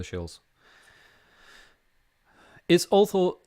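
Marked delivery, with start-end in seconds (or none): 2.7-3.4 a hammed-up Welsh lilt, higher and louder; playful Welsh accent attempt. Shown as a demonstration. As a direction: try the words in a Welsh accent. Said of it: "it's also the Welsh accent".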